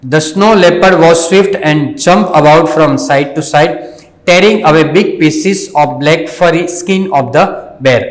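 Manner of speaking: slow, carefully paced reading aloud for learners; slow story reading. Shown as a demonstration. Teacher reading the story slowly to the students. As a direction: read each word out slowly and clearly.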